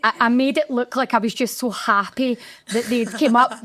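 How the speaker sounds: holding back tears while recalling opening week; welling up. Real, not acted. Talking to her husband, fighting tears as she remembers. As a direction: voice lifting high as tears threaten. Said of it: "my wee chin started going".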